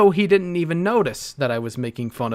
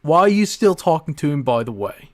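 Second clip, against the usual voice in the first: imitating Dean; 3 semitones higher, 5 dB louder than usual. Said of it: "This is Dean".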